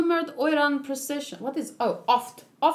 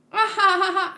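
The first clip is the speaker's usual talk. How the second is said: annoying laugh; 7 semitones higher, 6 dB louder than usual. Acted. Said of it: "her annoying laugh".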